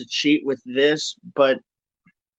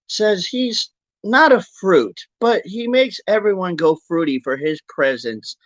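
announcer. Acted. Grand introduction of guest.

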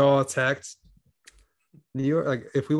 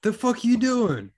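high slow incredulous voice; 11 semitones higher, slower than usual. Retold or imitated. Mock director reacting to actor.

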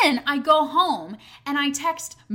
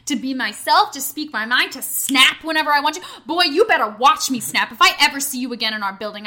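loud, indignant mocking rant; outraged rant; 2 semitones higher, 6 dB louder than usual. Real, not acted. Storyteller ranting at the man who gave her permission, outraged. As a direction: build from scoffing disbelief to a threat. Ranting about the man's presumption.

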